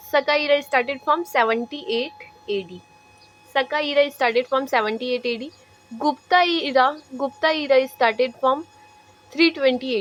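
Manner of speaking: slow dictation. Shown as a demonstration. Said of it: "teacher dictating a date".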